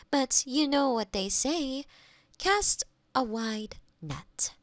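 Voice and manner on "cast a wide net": whisper. Acted. Robot offers platitude after bad news.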